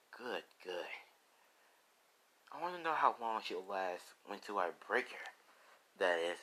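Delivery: soft, understated menace; hushed, lightly acted villain; scheming villain. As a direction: muse quietly on your plan. Villain plots to break Lisa.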